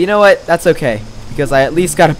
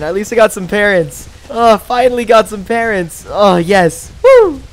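high, loud, fast giddy babble; laughing through the excitement; excited; 4 semitones higher, 4 dB louder than usual. Real, not acted. Streamer spotting another dibble, excited and laughing. Finally found parents.

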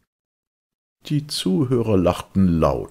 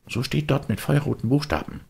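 put-on high, know-it-all kid; a cocky boy brushing him off; smug boyish voice; the boy's voice; 9 semitones higher, 3 dB louder than usual. Boy reads poster aloud.

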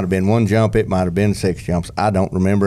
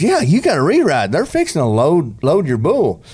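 urging; 7 semitones higher than usual. Retold or imitated. Friend urges in retold story.

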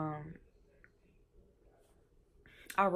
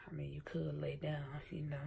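whispered aside; 6 dB quieter than usual. Real, not acted. Aside to someone off camera.

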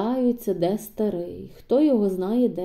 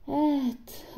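softer, barely audible sigh-word; barely squeezed out; 5 semitones higher, 6 dB quieter than usual. Acted. Weak Maria answers Hnat, barely squeezed out. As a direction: force the word out weakly. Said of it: "ледве витиснула з уст Марія".

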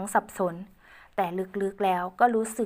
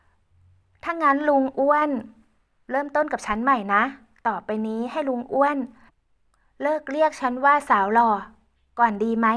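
put-on higher, louder girl voice; playful young woman; 5 semitones higher, 5 dB louder than usual. Ae playfully asking Uncle Uan, high girlish voice. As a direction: ask playfully as Ae.

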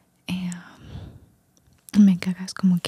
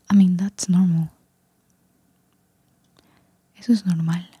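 ASMR whisper. Real, not acted. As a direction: whisper close to the mic, relaxing the listener. Susurro ASMR todo el video. (susurro ASMR suave)

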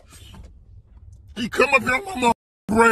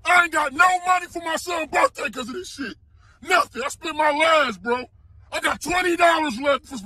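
desperate shouting; 3 semitones higher than usual. Real, not acted. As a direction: shout it like everything is lost. Broke father yelling about money.

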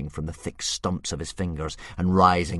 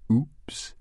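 evil giggle; 4 semitones higher than usual. Acted. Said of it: "giggled the dragon evilly".

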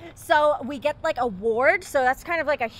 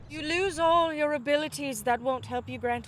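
lightly British, officious; British accent; 3 semitones lower than usual. Acted. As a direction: explain the rules in a put-on British accent. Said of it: "Stop doing the accent".

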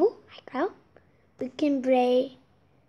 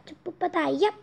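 magic spell; 2 semitones higher than usual. Pretend. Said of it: "주문을 외우자".

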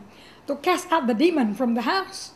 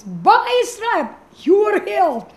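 distant divine voice; 6 semitones higher, 5 dB louder than usual. Retold or imitated. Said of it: "speaking like this".

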